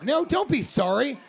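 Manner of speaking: high, laughing shout; mock shout. Comedian shouting at the heckler while laughing. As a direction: yell it while cracking up.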